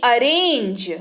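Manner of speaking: arrange opening on a short "uh"; pronunciation demo. Shown as a demonstration. Teacher showing learners how A sounds, pronunciation demo of arrange. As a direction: say arrange as "uh-RAYNJ". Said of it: "ए का उच्चारण अ के तौर पर".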